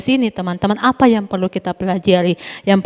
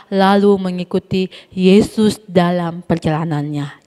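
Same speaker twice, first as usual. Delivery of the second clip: steady, careful reading voice for the Sunday school class; Bible reading aloud. Acted. Teacher reads the Bible story aloud to the kids, clear reading voice. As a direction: read the passage clearly to the children.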